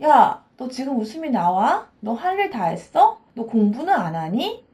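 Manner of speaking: a hammed-up inner critic berating you for laughing; nagging inner critic. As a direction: play a nagging parent who scolds you for having fun. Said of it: "나쁜 예를 한번 들어볼게요".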